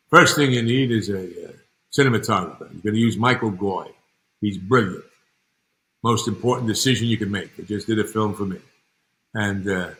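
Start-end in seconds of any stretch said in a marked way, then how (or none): 0.1-8.6 louder, emphatic imitation of a producer; Al Ruddy impression. Producer advises his friend on choosing a cinematographer, Al Ruddy impression. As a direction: lay down advice firmly, as the imitated mentor. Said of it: "he talked like this".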